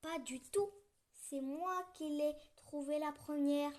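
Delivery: mild indignation; indignant. Acted. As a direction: protest your claim to the mitten. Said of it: "s'indigne la petite souris".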